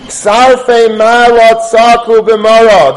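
declaimed loud and drawn out; bitter outcry. Acted. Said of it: "cried out bitterly".

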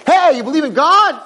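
high, loud challenge; mock calling out. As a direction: call out to an indifferent kid. Calling out to indifferent kids.

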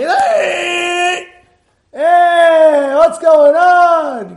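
high, loud, angry yell; impatient shout. Retold or imitated. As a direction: yell at the car ahead. Impatient driver honking.

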